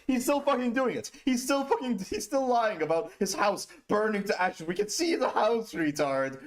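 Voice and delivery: high, loud ranting shout; angry. Real, not acted. Streamer raging at Dylan's lie, high loud shout. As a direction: yell it indignantly.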